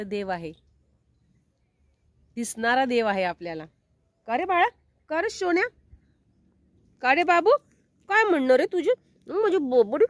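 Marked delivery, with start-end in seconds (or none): 4.3-10.0 playful pet-cooing voice. Real, not acted. Cooing fondly to her darling pet, baby talk. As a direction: coo to a little darling, lilting upward.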